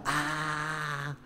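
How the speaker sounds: soft mock child's cry; hint at the boy's yelp; imitated child scream. Mother imitating her son's scream, softly. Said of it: "él se tapa los oídos y grita".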